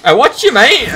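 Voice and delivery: high loud shout at a foe; angry warning. Real, not acted. Gamer warns an enemy off, loud high shout. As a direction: yell it like a threat.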